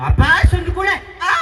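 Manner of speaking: high, loud demo ending in a long ಆ; demonstrated cry. Shown as a demonstration. Director showing actress how to call Abbas, crying out. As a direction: call it out and stretch the final ಆ. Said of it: "ಅನ್ಬೇಕು".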